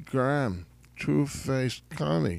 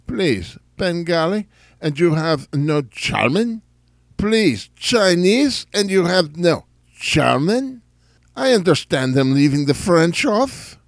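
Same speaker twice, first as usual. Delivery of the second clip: louder, higher, outraged protest; indignant outrage; 4 semitones higher, 7 dB louder than usual. Acted. Character protesting the hotline's missing German option. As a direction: demand to know why there's no German.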